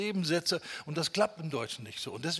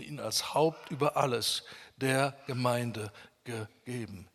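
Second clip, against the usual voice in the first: preacher reciting scripture with deliberate emphasis; scripture reading; 4 semitones lower than usual. Acted. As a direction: read the verse solemnly, leaning on key words. Reads the Bible passage aloud.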